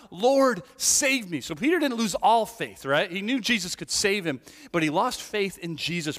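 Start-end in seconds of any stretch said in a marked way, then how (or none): 0.1-1.4 loud, high cry for help; cried out. A narrator's reading. Peter sinking in the sea, crying out to the Lord loud and high. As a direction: call out as if sinking. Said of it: "he cried out".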